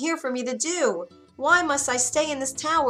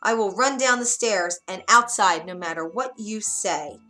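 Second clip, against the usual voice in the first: put-on defiant girl; 2 semitones higher, 5 dB louder than usual. Rapunzel defying the witch, louder and defiant. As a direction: stand up to the witch.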